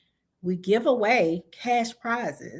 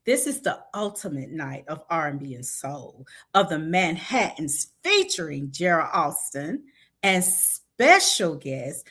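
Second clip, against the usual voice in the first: sexy voice; 4 semitones lower than usual. Pretend. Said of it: "I'm gonna get my sexy voice on".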